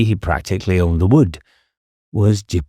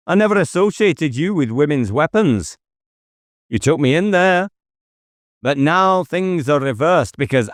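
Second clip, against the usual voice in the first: higher, fast, triumphant accusation; gloating inspector naming the weapon; accusing detective; 8 semitones higher than usual. Acted. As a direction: spell out the crime to flush him out. David accuses Jippo aloud.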